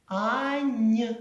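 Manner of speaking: ань: final н softened; soft final N. Shown as a demonstration. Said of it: "А якщо м'яко".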